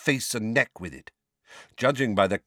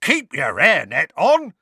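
loud, raised-pitch protest; cowering protest; 8 semitones higher, 7 dB louder than usual. A narrator's reading. Mundungus with arms over his head, cowering. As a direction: protest as if ducking blows.

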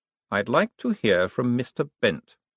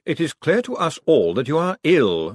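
calm, measured patrician; cool ruler addressing the accused; Vetinari; 6 semitones higher, 3 dB louder than usual. Acted. Vetinari coolly addressing the accused, measured.

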